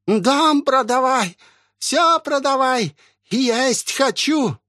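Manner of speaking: very high, drawn-out shriek; shrieking old woman. Acted. Possessed old woman screaming from the house for food. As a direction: howl it like a possessed hag.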